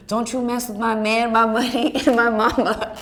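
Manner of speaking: coworker's tough Bronx Latina voice, hammed up; imitating coworker's New York Latina accent. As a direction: mimic a feisty coworker's accent. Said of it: "she had this accent".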